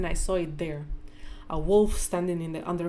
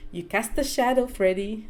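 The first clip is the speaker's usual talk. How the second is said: teasing; 4 semitones higher, 4 dB louder than usual. Acted. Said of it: "Mother smiled".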